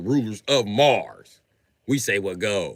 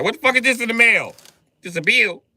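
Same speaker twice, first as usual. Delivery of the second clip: high, loud indignant outburst; outraged complaint; 10 semitones higher, 5 dB louder than usual. Acted. Leo outraged opening heaven's bill, high loud indignation. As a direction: rage at the bill in the mail.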